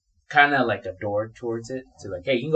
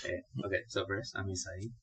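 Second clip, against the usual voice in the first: sultry voice; 2 semitones lower, 8 dB quieter, faster than usual. Real, not acted. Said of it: "Why are you talking, like, sultry voice".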